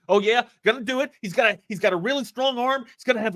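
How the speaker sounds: put-on high-pitched Baltimore accent, trailing downward; Mel Kiper Junior impression. Co-host mimics a rambling football analyst, Baltimore accent. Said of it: "You can hear it in his accent".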